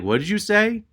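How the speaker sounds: high-pitched, affronted question; incredulous challenge. Retold or imitated. Customer challenging the muttering clerk, incredulous. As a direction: pitch climbing in disbelief.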